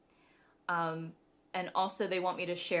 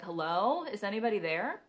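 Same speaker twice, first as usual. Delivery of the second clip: frustrated hello; 3 semitones higher than usual. Retold or imitated. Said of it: "got kind of frustrated".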